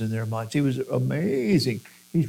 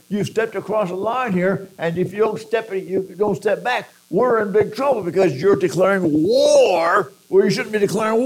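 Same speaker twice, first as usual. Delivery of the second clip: family berating; 4 semitones higher, 3 dB louder than usual. Retold or imitated. Family berating Jesus, voiced.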